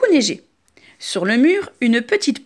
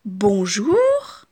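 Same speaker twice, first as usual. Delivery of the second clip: calm greeting; 3 semitones lower than usual. Acted. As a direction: say it gently, hushed. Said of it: "dit calmement Jeanne".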